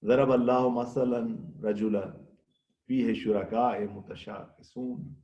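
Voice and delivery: slow, measured Arabic recitation; slow Quranic recitation of the verse. Acted. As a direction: recite the verse slowly and reverently. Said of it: "خداوند ایک اور مثال دے رہا ہے".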